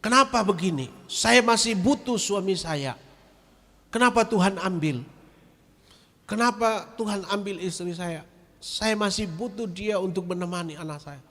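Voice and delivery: mock lament of an angry mourner; angry at God. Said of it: "Marah sama Tuhan".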